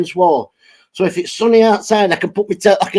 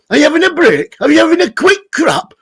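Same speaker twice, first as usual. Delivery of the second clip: teasing; 7 semitones higher than usual. Real, not acted. Teasing streamer.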